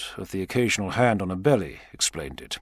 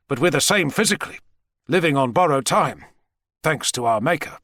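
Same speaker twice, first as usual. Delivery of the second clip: higher-pitched, emphatic retort; defiant American president; 5 semitones higher than usual. Acted. President dismissing Savage's warning about his body, defiant. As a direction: scoff at the warning in character.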